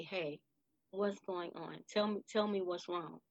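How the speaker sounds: retold tender check-in; gentle coaxing. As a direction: ease them into opening up, quietly. Gently coaxing her upset grandchild.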